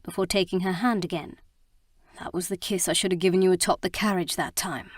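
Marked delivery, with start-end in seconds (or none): 2.2-4.9 raspy. Acted. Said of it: "he rasped".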